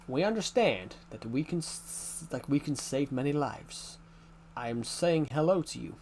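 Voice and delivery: put-on American accent. Shown as a demonstration. Streamer showing viewers an American accent. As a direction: speak like an American, slightly formal. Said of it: "Can you do an American accent?".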